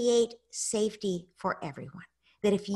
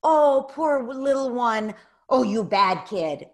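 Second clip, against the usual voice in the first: slow, louder mock pity then blame; taking sides; 4 semitones higher, 7 dB louder, slower than usual. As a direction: coo over the little one, then scold, slowly. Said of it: "I come in and I say".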